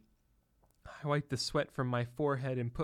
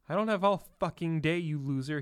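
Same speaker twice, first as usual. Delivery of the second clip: higher, louder impatient bark; impatient snap; 4 semitones higher, 5 dB louder than usual. Acted. Trump scolding the frozen bellboy, impatient louder snap. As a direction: snap at the loser. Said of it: "he said next".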